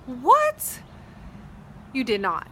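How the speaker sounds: a hammed-up shocked squeal of disbelief; astonished disbelief. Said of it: "he didn't talk like that".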